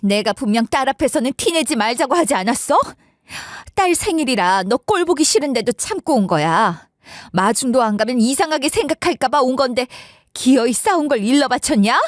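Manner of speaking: acted indignant telling-off; angry outburst. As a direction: lash out, fed up, pitch jumping on the last demand. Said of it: "참지 못하고 갑자기 이렇게 화를 내셨어요".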